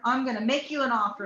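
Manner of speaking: brisk, upbeat host pitch; game show host voice. Retold or imitated. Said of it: "You almost sound like a game show host".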